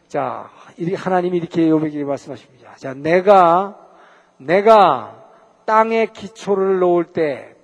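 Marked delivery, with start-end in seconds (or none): 2.8-7.5 God speaking. Acted. Preacher voices God speaking to Job.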